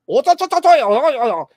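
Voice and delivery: very high, loud mock squeal; mock squeaky tank crew. Tank crew facing the protester, a high loud mock squeal. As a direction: squeak it out like a panicked cartoon soldier. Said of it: "the tank operators are like".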